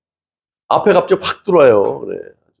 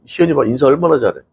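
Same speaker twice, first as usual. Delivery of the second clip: normal talking voice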